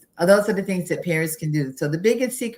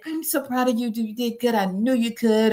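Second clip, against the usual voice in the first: put-on praising a child; 4 semitones higher than usual. Shown as a demonstration. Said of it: "celebrate them with intrinsic motivation by saying".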